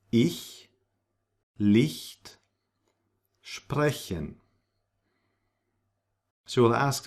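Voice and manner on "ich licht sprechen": ich, Licht, sprechen with a hissed front ch; soft ich. Shown as a demonstration. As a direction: hiss the ch softly. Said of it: "or h".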